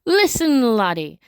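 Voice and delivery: put-on Scottish accent. Foreman asks a worker at the port for help, Scottish accent. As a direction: put on a Scottish burr, stretching the final question. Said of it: "I don't know why I made him Scottish".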